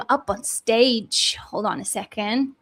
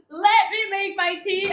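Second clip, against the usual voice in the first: higher whining plea for tea; mock wail; 6 semitones higher than usual. Real, not acted. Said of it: "Then let me make my tea".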